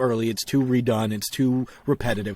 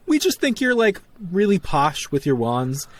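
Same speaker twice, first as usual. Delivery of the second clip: mock character voice; 6 semitones higher than usual. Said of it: "she was like".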